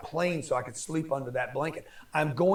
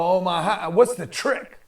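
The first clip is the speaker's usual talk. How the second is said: mock eager whine; 2 semitones higher, 5 dB louder than usual. Mocking an impatient viewer.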